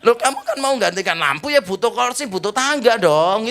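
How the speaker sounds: loud, high-pitched baffled protest; bewildered wife. Retold or imitated. Wife answering her husband's outburst over the lamp, bewildered. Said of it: "Istrinya sampai bingung".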